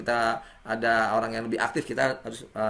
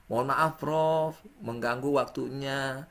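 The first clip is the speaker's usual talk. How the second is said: polite demo message; 2 semitones lower than usual. Shown as a demonstration. Student demos a polite message to the professor, gentle and respectful. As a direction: read it as a humble student writing to the professor. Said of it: "Disisipkan salah satu itu".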